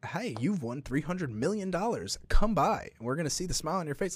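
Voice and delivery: hammed-up prize call; cheery prize caller. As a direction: sell the win with a grin. Sweepstakes caller voiced.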